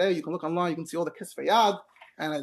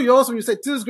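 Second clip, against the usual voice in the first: usual speaking voice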